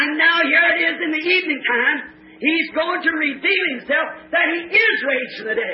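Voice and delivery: fervent preaching. Real, not acted. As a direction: preach it to a responsive congregation.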